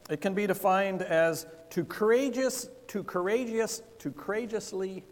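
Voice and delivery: stumbling with a numb, frozen mouth; tripping over the word with a frozen mouth. Real, not acted. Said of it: "maybe my mouth is frozen too".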